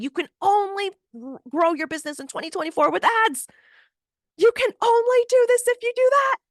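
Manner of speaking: high, loud mocking voice of a marketing guru; know-it-all marketer. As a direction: parody an ads-pushing expert. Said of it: "someone on the opposite end saying".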